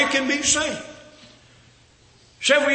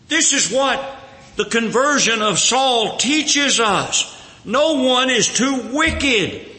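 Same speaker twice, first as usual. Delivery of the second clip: preaching emphasis; 3 dB louder than usual. Acted. Preacher urging the congregation to learn, at full force. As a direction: drive the lesson home from the pulpit. Preacher driving home the lesson.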